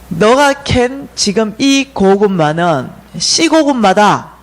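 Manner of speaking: slow, deliberate proclamation; dream messengers' pronouncement. Retold or imitated. Three dream visitors instruct the dreamer, slow solemn pronouncement. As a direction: declare it slowly, word by word. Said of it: "이 세 사람이".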